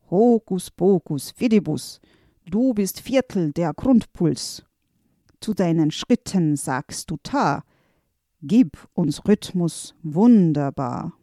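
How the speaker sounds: solemn magic chant of a wizard; incantation. Acted. Wizard touches the helper with his wand, chanting a spell. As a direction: cast the spell, lightly chanted.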